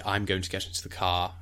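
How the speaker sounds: RP, fully worded, CAR without an R; RP accent. Shown as a demonstration. Teacher showing how they would say it, RP accent. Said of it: "An R P, they would say".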